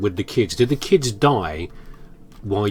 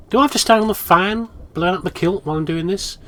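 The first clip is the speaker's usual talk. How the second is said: mock fluster; 9 semitones higher than usual. Real, not acted. Joking about kilt on fan.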